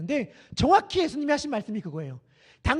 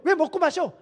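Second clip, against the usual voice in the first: higher-pitched acted challenge; raised, acted hostile questioning; persecuting accusation; 5 semitones higher than usual. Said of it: "라고 핍박하는 게 이 세대였다는".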